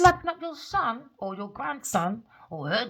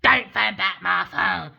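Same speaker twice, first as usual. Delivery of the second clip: slow, louder mocking quote; mock order; 10 dB louder, slower than usual. Reader quoting the man's parting words back at him, slow and loud. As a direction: throw his words back at him, slowly and loudly. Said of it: "You just said".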